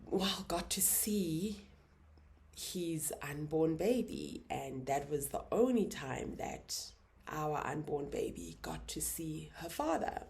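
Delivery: near-whisper, slow, fighting tears; holding back tears. Real, not acted. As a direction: let the words barely come out. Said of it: "So I'm gonna try not to cry".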